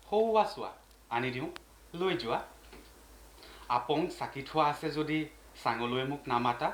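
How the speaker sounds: unhurried poem reading with lilting questions; poetry recitation. Acted. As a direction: recite it phrase by phrase, stretching the words. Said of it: "সেই কবিতাটো মই এই মুহূৰ্তত পাঠ কৰি দিম".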